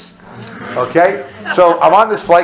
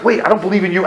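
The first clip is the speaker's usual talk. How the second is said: mildly raised, halting protest to God; restrained objection; 3 semitones higher, faster than usual. Retold or imitated. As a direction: object before the panic takes over. First, more restrained take to God.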